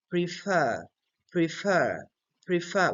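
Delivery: prefer with the second syllable long and falling; stress on second syllable. Shown as a demonstration. Teacher models the word for learners, stress on the end of prefer. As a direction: say prefer leaning on a drawn-out "fer". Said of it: "We don't say prefer".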